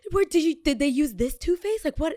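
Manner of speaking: high-pitched mocking voice; mock nosy viewer. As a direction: imitate a fussy, nosy follower up high. Mimicking an imagined nosy viewer.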